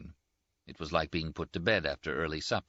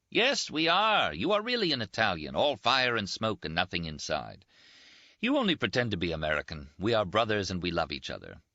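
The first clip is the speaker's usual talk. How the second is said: lightly voiced Rinaldi, a bit higher and teasing; teasing Italian friend; 4 semitones higher than usual. Rinaldi teases his wounded roommate, lightly voiced higher banter. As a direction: toast him with mocking cheer.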